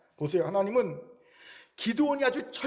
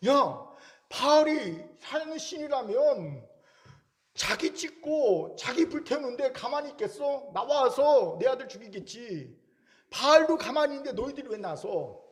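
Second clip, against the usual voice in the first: father Joash challenging crowd; 4 semitones higher than usual. Retold or imitated. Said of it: "이 얘기를 하고 있는 거예요".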